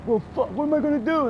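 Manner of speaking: high, loud and fast exasperated shout; exasperated driver. Retold or imitated. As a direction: throw up your hands and yell.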